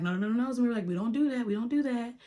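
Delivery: playful retold self-correction; self-admonishing. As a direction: talk yourself out of it, quick and insistent. Stops herself from speaking in tongues.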